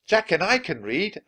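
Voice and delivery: put-on high eager child voice; piping up. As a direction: pipe up brightly. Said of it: "Annie piped up".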